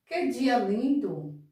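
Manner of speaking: slow, admiring exclamation with a lift on Que. Shown as a demonstration. Teacher showing pupils an exclamation, slow and admiring. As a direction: say "Que dia lindo!" as if amazed by the weather. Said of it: "ela indica admiração, espanto, alegria".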